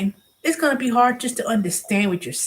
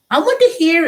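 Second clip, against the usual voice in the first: imitating a caller; 9 semitones higher, 6 dB louder than usual. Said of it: "it was like".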